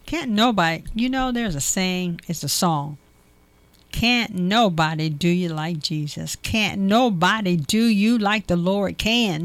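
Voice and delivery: rhythmic preacher's list, punching each item; preaching cadence. Acted. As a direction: preach it with call-and-response rhythm.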